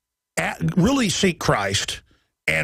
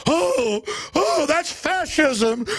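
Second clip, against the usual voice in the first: high, slow, prissy mock shock; high drawn-out mock outrage; whiny mock gasp; 11 semitones higher, much slower than usual. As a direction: draw it out like a scandalized prig. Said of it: "mocking the critics' reaction".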